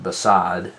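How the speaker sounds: "beside" with a short weak be and a full SIDE; stress on SIDE. Shown as a demonstration. Teacher showing students how to hear stress, "beside" with SIDE stressed. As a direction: let the second syllable of "beside" carry the word. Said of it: "You can hear the stress on the side part".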